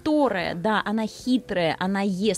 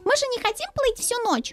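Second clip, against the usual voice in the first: much higher squeaky little mouse. Acted. Mouse voice continues.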